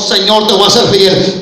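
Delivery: forceful vow from the heart; heartfelt vow. Shown as a demonstration. Believer promising God faithfulness from the heart, heartfelt vow. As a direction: promise it with full conviction. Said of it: "sino del corazón".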